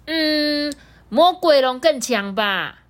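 put-on high, sweet little-kid voice; a small dinosaur child, earnest and innocent; baby triceratops. Baby answers T-rex.

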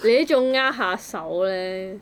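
normal talking voice

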